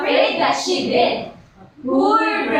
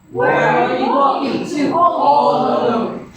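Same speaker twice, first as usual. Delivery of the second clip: deep booming voice; 3 dB louder than usual. Acted. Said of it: "it asked in its deep, booming voice".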